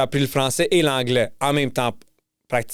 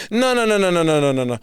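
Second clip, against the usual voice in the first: cutting someone off. Acted. Québécois rejecting French listeners' excuse, rapid-fire interruption. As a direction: rattle it off to shut down the excuse.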